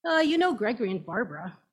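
fast, offhand aside between two adults; a quick private word at a party, said fast. Acted. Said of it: "A voice said in Ukrainian".

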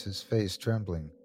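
ordinary delivery

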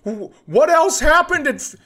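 high, loud eager listener voice; squeaky excited fan impression.

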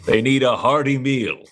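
lightly played jovial bluff, lifting at the end; hearty caterer. Caterer praising guards after a backslap, lightly hearty. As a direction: talk up the guards with mock heartiness.

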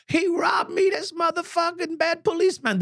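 high shouted accusation; yelling accusation. Retold or imitated. Woman yelling to police about the cop. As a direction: yell it at the cops, pointing. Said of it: "she's yelling out".

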